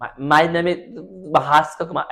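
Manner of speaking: halting repeat on "My, my" before the name; mock speech impediment, tripping on "My" and भास्कर; imitating a stammer. Shown as a demonstration. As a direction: stumble over "My", then push out भास्कर कुमार haltingly. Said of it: "ऐसा बोल सकता है".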